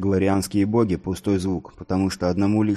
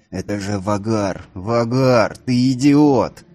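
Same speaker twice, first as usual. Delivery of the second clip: a louder, building scold; 5 dB louder, slower than usual. A narrator's reading. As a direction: berate your foolish brother. Brothers scold their hothead.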